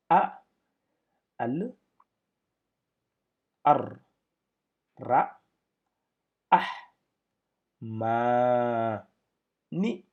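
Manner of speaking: each Arabic syllable called out loud and separate. Shown as a demonstration. Teacher sounding out Arabic syllables to students, loud and separate. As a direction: spell out the syllables one at a time, loud. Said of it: "Donc, nous avons".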